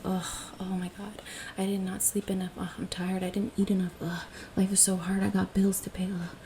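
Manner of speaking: hammed-up groaning complaints; mock weary grumbling. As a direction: moan like a tired sloucher. Acting out a weary sloucher.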